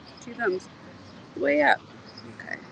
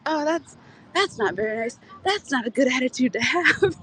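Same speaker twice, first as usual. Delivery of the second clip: mock-offended cop, slightly raised pitch; fake upset; 3 semitones higher than usual. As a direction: imitate a playful telling-off, feigning hurt. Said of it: "I think he was fake upset".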